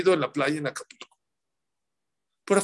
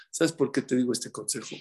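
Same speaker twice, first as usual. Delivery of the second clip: gentle parent advice; 5 semitones lower, 3 dB quieter than usual. Retold or imitated. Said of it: "Nada más dile una cosa".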